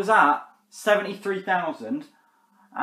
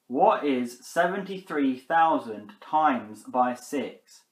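even slower, deliberate question; repeating to voice assistant; 3 semitones lower, much slower than usual. Real, not acted. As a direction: spell it out more slowly. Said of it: "Are you stupid, Siri?".

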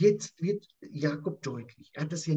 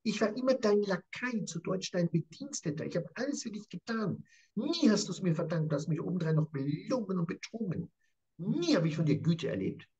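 indignant reproach; 4 semitones higher than usual. Acted. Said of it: "Er sagt ihm jetzt".

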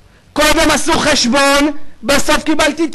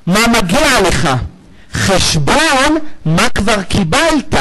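slow, deliberate; 2 semitones lower, slower than usual. Shown as a demonstration. Preacher explaining judgment to congregation, slow and weighty. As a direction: draw out מה מגיע לך and חשבון very slowly. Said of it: "יש מי שאמר דין".

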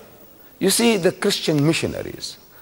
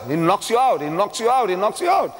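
building emphasis; 4 semitones higher than usual. Acted. Building repetition.

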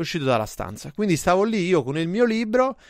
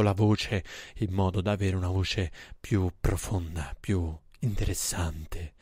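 much lower, deep chest voice; 8 semitones lower, 7 dB quieter than usual. Shown as a demonstration. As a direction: drop into a deep, authoritative register. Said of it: "quando fai la voce bassa".

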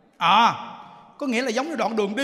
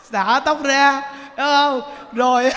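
slow emphatic; 4 semitones higher, 8 dB louder, slower than usual. Shown as a demonstration.

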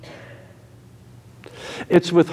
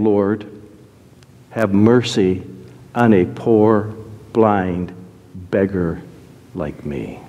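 low, halting prayer of a beggar; humble plea; 7 semitones lower, slower than usual. Acted. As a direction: ask humbly, word by word, sinking lower. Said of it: "We don't humble ourselves and ask for mercy".

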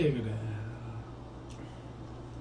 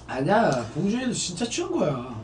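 ordinary talk

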